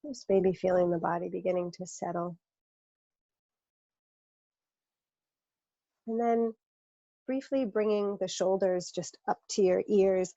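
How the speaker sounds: calm, unhurried guidance with long pauses; guided meditation. Acted. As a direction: lead a body scan, leaving room to breathe. Leads a guided body scan.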